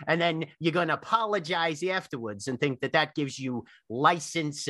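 lightly voiced old tree scolding an intruder; grave ancient myth telling.

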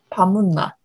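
"밥 묻나?" in Busan dialect with its own tune. Shown as a demonstration. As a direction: say "밥 묻나?" the Busan way, not Seoul Korean. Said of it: "In Busan dialect".

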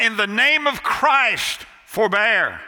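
reach over the crowd with a drawn-out plea; cried out. Retold or imitated. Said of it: "once again he cried out".

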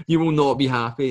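firm mock lecture to a client; emphatic retold warning. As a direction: insist bluntly on it.

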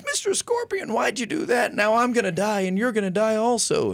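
squeaky high frog voice, hurt and accusing; dying frog's squeal. Acted. Preacher voicing the stung frog to the scorpion, squeaky high outcry. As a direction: jump way up into a shrill cartoon frog crying out.

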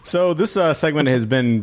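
host the segment in a put-on Boston-Mexican accent. Starting the segment on a dare, mock Boston Mexican accent. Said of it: "reassuming my natural accent".

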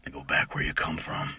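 hushed warning of a crusty old man, lightly voiced; a touch of the creepy Cabin in the Woods gas station guy; Harbinger. Shown as a demonstration. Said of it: "the Harbinger from, uh, Cabin in the Woods".

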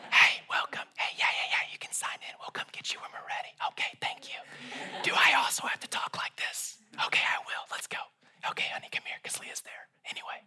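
hushed spa attendant whisper, quick; soothing spa worker whispering. Retold or imitated. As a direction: whisper like a calm spa receptionist. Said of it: "talking like someone that works at a spa".

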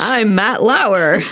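drawn-out anchorman delivery; Matt Lauer voice. Pretend. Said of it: "Fired for sexual harassment".

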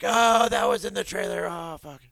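mock dismay. Viewer spotting a trailer scene.

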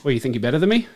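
put-on tough Boston guy accent; a rapper. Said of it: "You sounded like Marky Mark".

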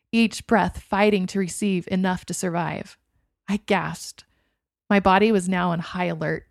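usual speaking voice

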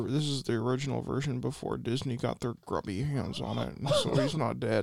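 lightly voiced filmmaker impression; halting, lightly put-on director's voice; George Lucas. Director pitches his Star Wars script to Tommy, lightly voiced George Lucas. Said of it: "doing my George Lucas".

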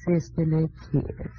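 Southern visitor. Pretend. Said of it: "I'll be a visitor from the South".

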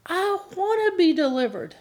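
mock desperate plea, held high; crying out to God. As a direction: beg God to set you free. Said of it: "really cry out and say".

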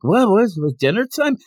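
high-pitched mock confusion; startled waking. Goku waking at dinner call, startled. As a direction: imitate someone jolted awake by food news. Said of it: "he ends up like".

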